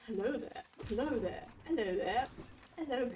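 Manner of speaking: attempted Scottish greeting, repeated; Scottish accent. Shown as a demonstration. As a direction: keep trying hello in a Scottish accent. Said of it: "in a Scottish accent".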